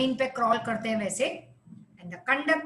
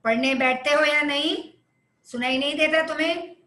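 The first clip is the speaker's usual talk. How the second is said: scolding mother; 4 dB louder, much faster than usual. Shown as a demonstration. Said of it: "See, this is commanding".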